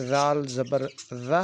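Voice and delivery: "ز" said as a soft, drawn-out letter; soft ز sound. Shown as a demonstration. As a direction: slowly demonstrate "زال زبر ز" with a soft consonant. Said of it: "ان کو نرم کر کے پڑھتے ہیں".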